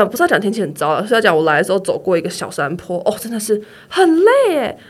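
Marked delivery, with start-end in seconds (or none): 3.0-4.8 weary sigh. Real, not acted.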